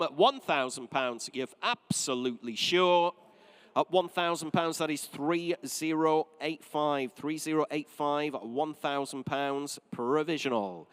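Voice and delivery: measured auction-room announcing of the hammer price; auctioneer's call. Acted. Auctioneer to bidders, announcing the sale in a measured call.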